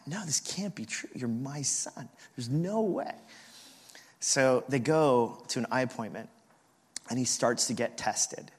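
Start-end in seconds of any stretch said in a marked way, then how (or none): 0.1-3.1 incredulous mock-mom refusal; disbelieving mom. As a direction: imitate a mother in denial. Retold mom refusing to believe.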